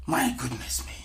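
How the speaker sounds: soft, whispered exclamation; hushed dismay. Real, not acted. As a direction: whisper it, aghast. Aghast aside at the vulgar wording.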